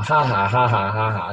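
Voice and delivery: steady rhythmic ha-ha in prayer; imitated pastor's ha-ha. Preacher retells the pastor praying over them, rhythmic ha-ha. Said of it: "他就这样".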